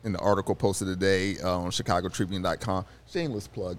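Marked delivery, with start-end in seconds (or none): 3.1-3.8 quiet throwaway plug, under the breath; tossed off softly as an aside; muttered aside. Shown as a demonstration. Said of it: "Do it".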